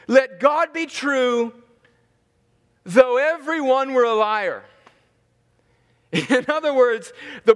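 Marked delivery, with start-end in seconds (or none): 0.1-4.6 slow, deliberate preaching with pauses between phrases; preacher's full proclamation; preached proclamation. Acted. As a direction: proclaim the verse to the whole room. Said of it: "preached verse, slow".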